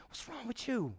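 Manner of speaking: gentle mock reproach, hushed; lovingly chiding. Holy Spirit to the man who drove away, softly chiding. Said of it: "the Holy Spirit just lovingly going".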